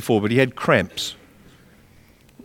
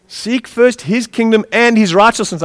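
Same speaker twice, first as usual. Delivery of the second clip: "and" set apart and stressed before "his righteousness"; 6 semitones higher than usual. Shown as a demonstration. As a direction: lean on "and" to add the second condition. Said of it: "Not just seek his kingdom".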